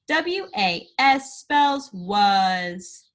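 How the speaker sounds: letters spelt out slowly; slow spelling. Shown as a demonstration. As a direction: spell each letter with a pause. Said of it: "spell it".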